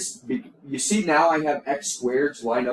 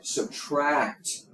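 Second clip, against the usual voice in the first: "Subtract." said alone, slow with a falling finish; deliberate teacher's "Subtract."; single emphatic word. Shown as a demonstration. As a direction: land the one word like a rule. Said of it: "let me say it again".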